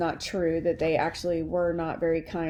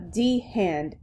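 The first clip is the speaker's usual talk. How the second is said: put-on amateurish French accent. Alice naming the hand, French accent. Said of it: "hear this in a French accent".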